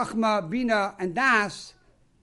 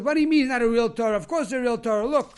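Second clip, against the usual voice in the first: louder, higher, quick indignant comeback; indignant protest; 4 semitones higher, 6 dB louder, faster than usual. Retold or imitated. Mister Horowitz objects that his Torah is real, indignant. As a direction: protest in mild mock disbelief. Disbelieving man argues back in retold quarrel.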